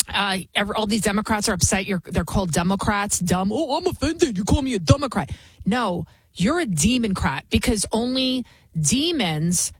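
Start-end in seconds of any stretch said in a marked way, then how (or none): 3.5-5.3 high, whiny mock-offended voice; mock offended whiner. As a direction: sneer it like a prissy offended critic. Mocking offended Democrats.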